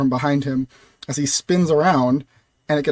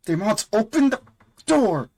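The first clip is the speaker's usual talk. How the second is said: high-pitched strained mock scream; 7 semitones higher than usual. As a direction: scream it high at a stuck door. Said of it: "kind of screaming at Demons".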